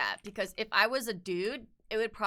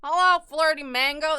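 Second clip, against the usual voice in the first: excited greeting; 7 semitones higher, 10 dB louder than usual. Real, not acted. Greeting a chat viewer.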